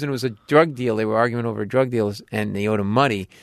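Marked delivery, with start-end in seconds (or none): none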